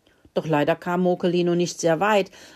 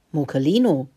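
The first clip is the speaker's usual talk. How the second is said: scolding; 2 semitones lower, 3 dB louder than usual. Acted. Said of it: "schimpfte Mokelinchen".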